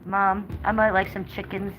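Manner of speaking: a hint of a sweet dog voice asking Mom; voicing the dog. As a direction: speak for the little dog. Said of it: "She said".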